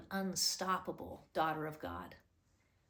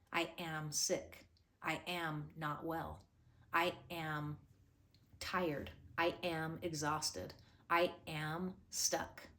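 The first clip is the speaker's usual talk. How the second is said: slow mopey self-talk; 2 semitones lower, slower than usual. Pretend. Voicing negative self-talk.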